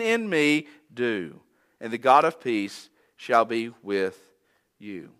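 measured, solemn reading of the verses; scripture reading. Acted. Preacher reading Philippians to the congregation, solemn and measured. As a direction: read it like holy text, letting each line land. Reads scripture passage aloud.

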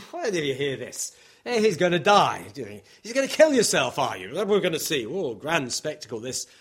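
mocking, with lively pitch swings; acted-out derision, amused; amused ridicule. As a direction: scoff at him like a sneering onlooker. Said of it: "amusement or ridicule".

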